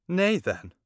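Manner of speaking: queen bristling at her son; indignant queen. Acted. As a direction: rise up in offended shock. Queen takes offence.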